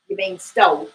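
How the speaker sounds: sharp accusing sergeant. Acted. Sergeant catches the convict out, sharp and high. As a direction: sergeant pounces on the convict's word.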